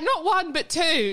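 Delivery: "not one" high, "two" punched; building emphasis. Real, not acted. Punchline reveal.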